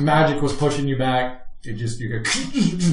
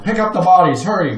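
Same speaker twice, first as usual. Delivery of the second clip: raised, urgent order; commanding; 5 semitones higher, 4 dB louder than usual. Acted. Soldier in charge orders his people about, commanding. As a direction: bark a hurried order at the workers. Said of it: "you can see him commanding people".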